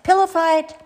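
high, loud, gleeful shout; excited shout. A narrator's reading. Peep breaking the hush inside the tent, sudden excited shout. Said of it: "Then he shouts out".

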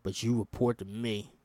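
a hint of a tough colonel giving orders; lightly voiced commanding marine officer; gruff colonel voice. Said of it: "I can't speak in that voice".

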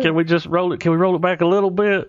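retold pleading. Flustered actor asking crew to restart, mildly pleading.

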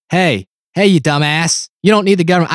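lightly voiced grumpy TV dad; a hint of a gruff sitcom father; Red Foreman impression. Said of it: "I just sound like Red Foreman".

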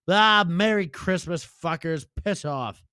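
lightly put-on grumpy sign-off; a mild cranky farewell; Lenny voice. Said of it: "Lenny, you got any final words?".

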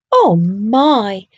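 a thrilled, breathy little gasp; breathed excitedly. A narrator's reading. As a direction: awestruck at the sight. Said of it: "Walter breathed excitedly".

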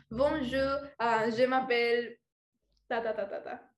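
slow, stumbling schoolbook French; halting French. Shown as a demonstration. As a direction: grope through a French introduction. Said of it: "algo en francés y se me traba el cerebro". (francés vacilante y lento)

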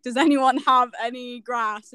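lightly voiced slow boomer; a hint of a clueless boomer, drawn out; confused boomer. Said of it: "boomers, basically. They don't know how".

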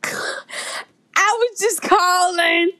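slow, drawn-out Yorkshire speech; thick Yorkshire accent. Acted. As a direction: stretch it in broad Yorkshire. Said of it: "That is one thick Yorkshire accent".

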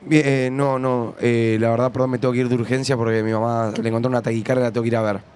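lightly acted worried excuse, low pitch; hesitant, subdued pretend excuse to a boss; playing the worker. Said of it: "entro personaje".

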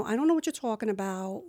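quick, offhand New Jersey accent; casual sample of a Jersey accent. Shown as a demonstration. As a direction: toss it off in Jersey talk. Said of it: "Give me a little sample of that".

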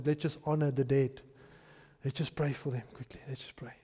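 low, hushed suggestion fading away; perfunctory piety. Pretend. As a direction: offer a quick token prayer quietly. Imagined perfunctory bystander at funeral procession.

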